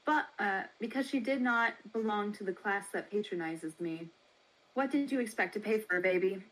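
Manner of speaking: lightly voiced brisk baby seller, quick; a hint of a brisk matron, fast. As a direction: rattle it off like a businesslike matron.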